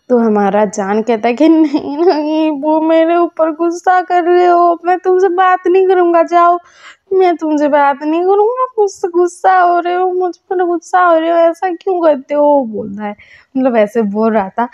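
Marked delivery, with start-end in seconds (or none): 1.5-12.6 sulky whining. Retold or imitated. Lover sulks at angry partner.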